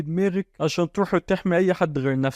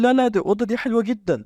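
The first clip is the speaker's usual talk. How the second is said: put-on young girl voice; 7 semitones higher than usual. A narrator's reading. Julia protests to the duke.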